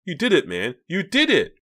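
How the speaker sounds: high, loud congratulating; excited. A narrator's reading. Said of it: "Mickey declared excitedly".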